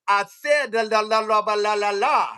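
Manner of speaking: high, indignant gibberish; mock attitude. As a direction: imitate an agent snapping back in babble. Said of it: "that motherfucker get an attitude".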